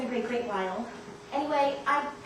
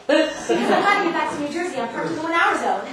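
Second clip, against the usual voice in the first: flustered chatter; 4 semitones higher, 10 dB louder than usual. Acted. Flustered guest rattling on.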